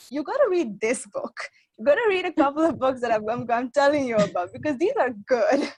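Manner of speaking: emphatic big-sister pitch, re-enacted; retold insistent urging. To a sister who doesn't like to read, re-enacted insistence. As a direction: push the point as if urging a sibling.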